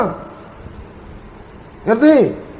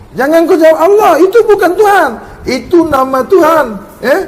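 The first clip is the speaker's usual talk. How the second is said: stern scolding; 5 semitones higher, 4 dB louder, faster than usual. Real, not acted. Teacher scolding student's wrong answer.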